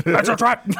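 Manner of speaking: high, loud, laughing shout; excited cry. Acted. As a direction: announce the shop name gleefully. Excited shop name.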